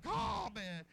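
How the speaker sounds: loud amazed "oh man"; amazed shout. Retold or imitated. Farmer sees new calves born and shouts in amazement. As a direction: let it burst out, amazed at the calves.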